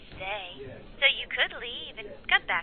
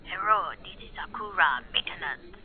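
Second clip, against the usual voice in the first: bad fake Japanese accent; 3 semitones lower than usual. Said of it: "I was going for Japanese".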